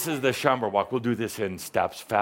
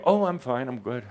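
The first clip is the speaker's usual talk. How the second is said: imitating Shaumbra. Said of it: "I picked that up from you".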